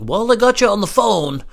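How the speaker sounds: high, slow put-on owner voice; owner's voice. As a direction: greet the caller as the club owner, slowly. Owner answering the call, voiced.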